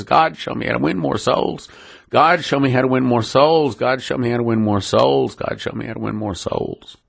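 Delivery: repeated plea to God, fading away to near silence; tearful repeated prayer. Retold or imitated. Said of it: "over and over with tears in my eyes".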